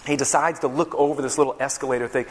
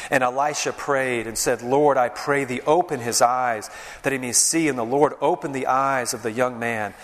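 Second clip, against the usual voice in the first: scripture reading. Acted. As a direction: proclaim the passage to the congregation. Reads scripture aloud.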